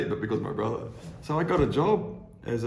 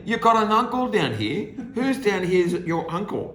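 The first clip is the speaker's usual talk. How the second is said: higher and louder, amazed question; can't believe he has an uncle here; a touch of surprised boss; 12 semitones higher, 8 dB louder than usual. Retold or imitated.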